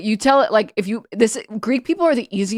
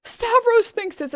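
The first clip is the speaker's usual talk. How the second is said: higher mocking voice, slowing on Stavros; mocking the commentator; 8 semitones higher than usual. Mocking the host who used the clip, high and slow. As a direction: mimic the smug commentator. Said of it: "for him to take this and then be like".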